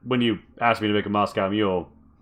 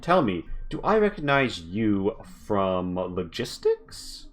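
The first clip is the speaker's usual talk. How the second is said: slow, syrupy greeting of a posh lady; slow sweet socialite; 2 semitones higher, slower than usual. Acted. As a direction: lure him in, drawing each word out. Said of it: "she turns and says".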